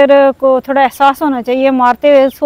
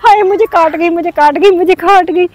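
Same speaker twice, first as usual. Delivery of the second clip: higher pitched imitation of a child crying out it stings; mock child's wail; 5 semitones higher than usual. Mother imitating her child crying as powder stings, mock wail. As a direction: mimic the child yelping, mildly. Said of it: "चीखती, चिल्लाती रहती".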